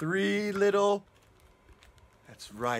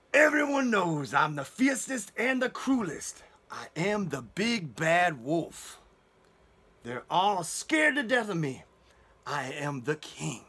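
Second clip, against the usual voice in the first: mild mock trumpeting; slower than usual. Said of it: "trumpeted at the top of his voice".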